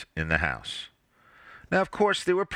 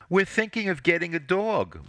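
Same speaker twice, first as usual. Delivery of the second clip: higher, sweet and innocent; sweetly; 8 semitones higher than usual. A narrator's reading. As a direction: sound sweet to hide your real aim. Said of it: "She said this so sweetly".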